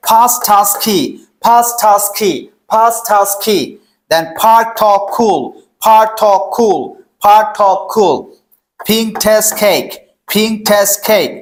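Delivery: "part talk cool" firmly, every first consonant puffed; loud aspiration drill. Shown as a demonstration. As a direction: repeat "Fast task key" as an evenly measured drill, falling end. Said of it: "একটু loudly চেষ্টা করব এটা".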